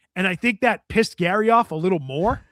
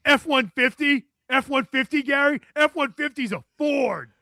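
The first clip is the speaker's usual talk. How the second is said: high, raised-voice mock correction; mock incredulous correction; 7 semitones higher, 4 dB louder than usual. Zoe cracks the mic to correct Gary, high mock correction. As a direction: pitch it up, imitating a co-host calling out a mistake. Retells co-host's on-air correction.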